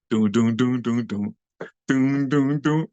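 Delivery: doom out a funk bass line; mouthed bass riff; mimicked bass groove. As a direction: voice the beat of the record. Sounding out the music's bass line.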